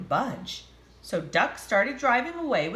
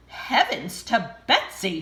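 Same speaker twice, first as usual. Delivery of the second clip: exclaiming waitress; 4 dB louder than usual. Acted. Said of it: "she exclaimed".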